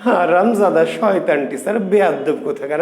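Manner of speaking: half-laughing imitation of students' abuse; mock cursing. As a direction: grumble mock insults at the teacher. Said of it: "এমন গালি দিবে না স্যারকে". (ঠাট্টার ছলে গালি)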